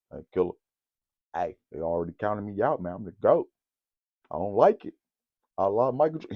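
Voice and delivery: soft, low mock LeBron; hushed retelling of his friend; imitating LeBron quietly. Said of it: "This is how he said it".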